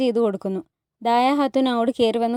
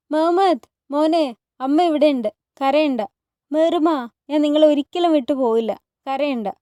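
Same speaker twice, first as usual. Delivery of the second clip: higher, raised call through a closed door; calling to her children; 4 semitones higher than usual. Acted. Hurrem calls through the door to her crying children, raised and higher. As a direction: call out to reassure the crying kids.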